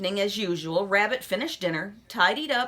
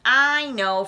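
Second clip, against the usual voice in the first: loud, eager call; Froggy cries out before Rabbit can finish; cried out; 3 semitones higher, 7 dB louder than usual. A narrator's reading. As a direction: blurt it out eagerly. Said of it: "Froggy cried".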